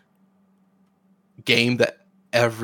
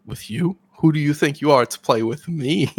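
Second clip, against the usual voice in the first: haughty mock disdain; snobbish; 3 semitones higher, 4 dB louder than usual. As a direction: act too important to bother. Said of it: "And Fix is like".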